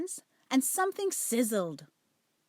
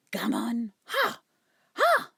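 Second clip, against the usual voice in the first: magpie squawk; 4 dB louder, slower than usual. Acted. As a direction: caw it like a cocky magpie. Magpie doctor's cackling cry.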